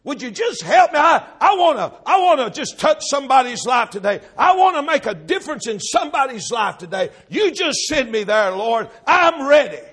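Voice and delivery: imploring the Lord, loud and lifted; acted prayer of an eager volunteer; eager plea. Believer begging the Lord to be sent to help somebody, eagerly.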